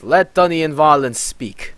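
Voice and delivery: a lightly heightened commanding voice; epic voice. Acted. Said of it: "I just gave him such an epic voice".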